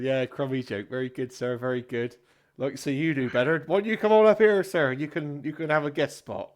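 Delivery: lightly voiced stage comic, rising to a challenge; comedian taking on a heckler. Comedian inviting a heckler up for a guest spot, goading.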